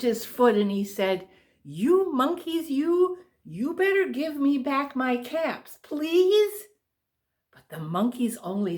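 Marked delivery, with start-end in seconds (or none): 1.6-6.6 mock angry scolding, higher pitch; a peddler losing his temper, lightly played; quite angry peddler. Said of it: "Now he felt quite angry".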